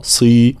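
"صي" with full s and clear i; heavy sad with kasra. Shown as a demonstration. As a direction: thicken the s of "صي". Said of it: "مع تفخيم". (صي بصاد مفخمة مكسورة)

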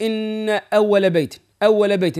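أول with the doubled و pressed; teacher demo of the waw shaddah. Shown as a demonstration. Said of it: "بين الشدة".

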